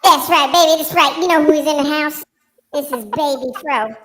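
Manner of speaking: cocky hype-man persona, playful swagger; strutting show-host alter ego, easing toward normal; Baby Fro character. Pretend. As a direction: play a sassy wig character, starting high and loud.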